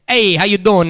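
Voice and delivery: mock New York Italian greeting; put-on Italian-American; Italian-American accent. Shown as a demonstration. The guest shows the host his Italian, greeting in an Italian-American accent. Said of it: "Now I can do the Italian".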